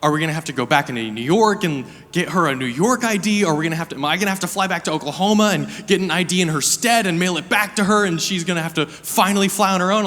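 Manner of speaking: mock panic, voice rising; freaking out. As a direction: panicky pitch climbing, rushing. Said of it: "freaking out".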